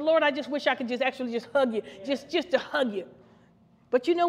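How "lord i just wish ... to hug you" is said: quiet, longing words to God; a softly voiced longing prayer; soft tender prayer. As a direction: speak it softly like a wish to hug. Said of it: "I said".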